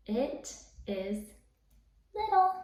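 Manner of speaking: tiny, squeaky voice for "little". Shown as a demonstration. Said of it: "say it in a really little voice".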